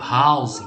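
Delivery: "house" with an audible H at the start; sounded H. Shown as a demonstration. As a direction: pronounce the H in "house". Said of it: "e esse H é sonoro". ("house" com H sonoro, aspirado)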